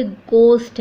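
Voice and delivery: "गोस्ट" with a hard, unaspirated G; silent H. Shown as a demonstration. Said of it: "एच silent है".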